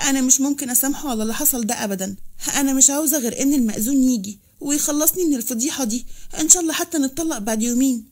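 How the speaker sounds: mildly put-on tearful plea; understated pretend distress; fake crying. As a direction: play the victim, lightly feigned weeping. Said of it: "مثلت إنها كانت بتعيط وقالت".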